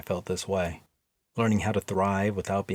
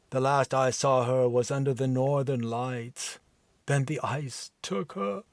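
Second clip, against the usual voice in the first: forlorn Viking. Acted.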